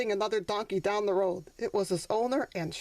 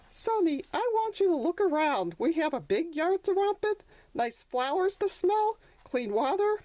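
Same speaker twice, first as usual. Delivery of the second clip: higher, tender motherly voice, slowing on 'you are loved'; consoling mother donkey; 6 semitones higher than usual. Acted. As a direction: soothe your sad son.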